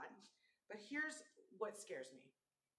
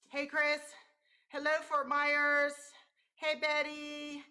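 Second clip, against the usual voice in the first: loud greeting; 5 semitones higher, 11 dB louder, slower than usual. Real, not acted. Greeting live viewers by name.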